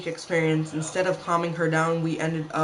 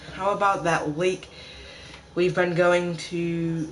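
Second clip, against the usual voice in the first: out of breath. Real, not acted. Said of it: "Sorry if I'm out of breath".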